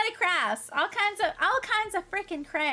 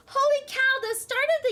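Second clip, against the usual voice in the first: amazed; 8 semitones higher, 6 dB louder than usual. Real, not acted. Amazed at viewer's word count.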